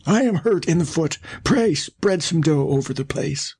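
high put-on wolf voice, slowing; wily wolf pleading. A narrator's reading. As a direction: ask a favour as a scheming wolf. Wolf tricks the baker.

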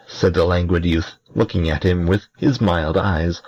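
plain reading voice

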